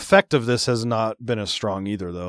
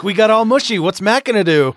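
mock gushing voice; 8 semitones higher, 5 dB louder than usual.

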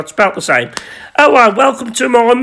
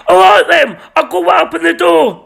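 shouting; 7 semitones higher than usual. Acted. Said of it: "And Gary said".

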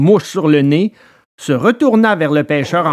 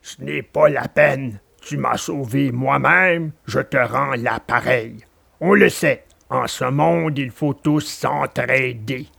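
kindly dog; 3 semitones lower than usual. Acted. Alidor answering Pinocchio's thanks, calm low dog voice. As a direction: shrug off the thanks calmly.

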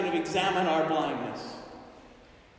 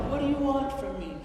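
compassionate Jesus; 4 semitones higher, 4 dB quieter, faster than usual. Acted. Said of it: "With compassion and love".

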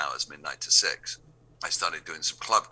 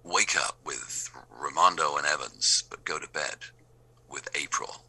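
lightly sultry English radio promo; a hint of seduction, measured and paused; mildly sexy station ident voice. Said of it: "with a sexy English voice".

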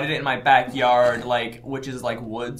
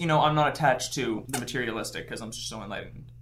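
smug enlightened; 2 semitones lower, 9 dB quieter than usual. Acted. Mocking own enlightenment.

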